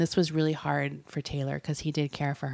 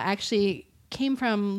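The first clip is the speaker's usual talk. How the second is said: usual speaking voice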